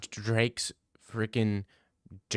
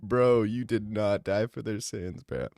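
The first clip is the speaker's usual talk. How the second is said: mock Jesus. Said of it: "Jesus said".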